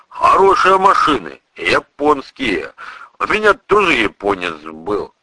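a touch of hearty, folksy admiration; lightly voiced burly priest. Priest recalls his own Japanese car, lightly hearty then wistful. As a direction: muse heartily, easing down to nostalgia.

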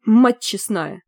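mildly stunned exclamation; understated shock; astonished gasp. A narrator's reading. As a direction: blurt it out in amazement. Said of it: "ахнул в наушниках голос адъютанта".

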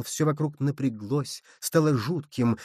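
plain reading voice

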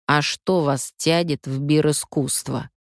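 plain reading voice

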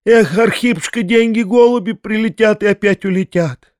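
high, reedy begging voice; wheedling drunkard begging to be let out; thin, quavering plea. A narrator's reading. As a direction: plead in a thin, trembling high voice. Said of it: "тонким дребезжащим голосом".

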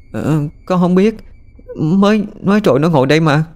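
put-on bewildered little girl protesting innocence; startled little girl. A narrator's reading. Daughter answers mother about her missing brother, bewildered child.

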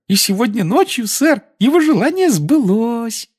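very high squeaky house-elf; eager devoted little elf. Acted. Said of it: "ответствовал эльф".

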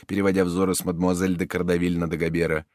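ordinary delivery

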